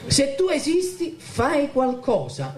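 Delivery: pitched high, pleading; desperate cry to God. Retold or imitated. Son crying out to God for his family, high and pleading. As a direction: throw the prayer up in desperation, slowing down. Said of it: "gridai al Signore".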